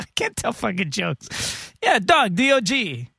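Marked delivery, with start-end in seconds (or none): 1.8-3.1 high mock old lady. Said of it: "She's like".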